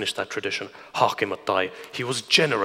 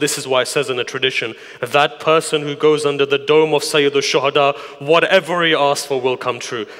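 insistent, raised sermon voice; impassioned preaching; 4 dB louder than usual. Acted. Preacher urging congregation to go to the shrine, impassioned. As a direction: press the exhortation home to the congregation.

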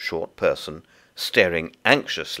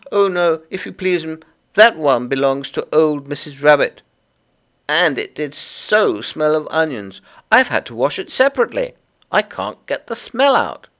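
high, loud little creature voice; busy Tiggywinkle; 9 semitones higher, 6 dB louder than usual. Acted. Tiggywinkle explains the washing to Lucy, high and busy. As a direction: chatter away as a small fussy laundress.

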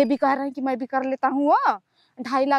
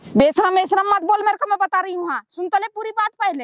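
indignant protest; 5 semitones higher than usual. Real, not acted. Mother called her shameless.

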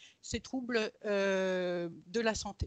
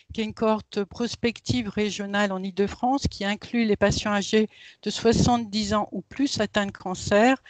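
voix captée par un micro-casque; 11 dB louder than usual. Real, not acted. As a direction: son proche d'un casque-micro. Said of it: "j'ai mis un casque". (micro-casque en visioconférence)

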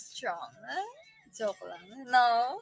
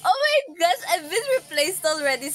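laughing mock despair; 3 semitones higher, 8 dB louder than usual. Real, not acted. Vlogger laughing over being replaced, loud mock despair. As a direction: wail it through laughter.

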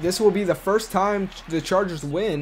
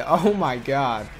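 laughing disbelief; 2 semitones lower, 3 dB louder, slower than usual. Real, not acted. Missed field goal, laughs.

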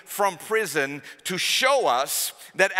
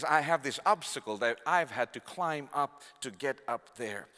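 hopeful inner voice; 3 semitones lower, 4 dB quieter than usual. Retold or imitated. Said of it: "look at the obstacle and says".

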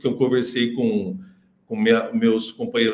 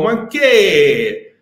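put-on slow, drawn-out Italian-accented broken English; mock Italian accent; 6 semitones higher, 4 dB louder, much slower than usual. Italian friend in LA speaking broken English, mock Italian accent. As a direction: ham up an Italian immigrant mangling English. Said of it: "aquele macarrônico".

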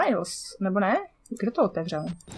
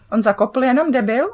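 louder scornful laugh-shout; loud mocking outburst; 3 semitones higher, 6 dB louder than usual. Real, not acted. Gamer jeering at an enemy who tripped. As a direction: jeer loudly at the clumsy enemy.

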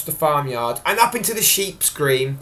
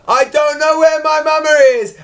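higher, louder little lamb near tears; a lost lamb about to cry; lamb starting to cry; 11 semitones higher, 6 dB louder than usual. Acted. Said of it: "little lamb started to cry".

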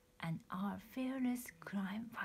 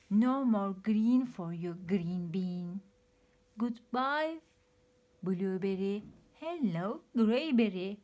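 a hint of gloating villain, louder; cackling villain; 6 dB louder than usual. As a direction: tease your victims cruelly. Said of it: "cackled the pea".

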